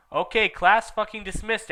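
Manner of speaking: high, loud breezy call; teacher dismissing the class; cheeky dismissal. Acted.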